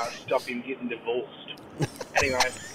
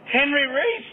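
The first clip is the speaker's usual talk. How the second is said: much higher mock masseuse voice; masseuse's question; 11 semitones higher, 4 dB louder, slower than usual. Masseuse asking the client once more, high mock voice. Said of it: "She said".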